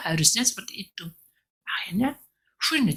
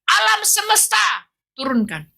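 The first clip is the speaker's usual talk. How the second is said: much higher, loud, slow command; commanding God; 12 semitones higher, 6 dB louder than usual. Retold or imitated. God summons lightning with a high loud slow command. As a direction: call the lightning down. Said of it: "hanya dia turun".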